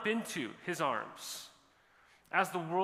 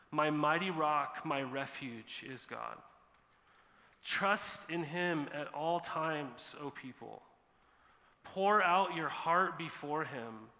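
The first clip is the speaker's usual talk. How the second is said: scripture reading. Acted. Pastor reading the psalm to the congregation, solemn. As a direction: read the psalm with weight and pauses.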